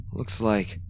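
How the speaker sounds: hushed whisper; grim whisper. Acted. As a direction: breathe the words out.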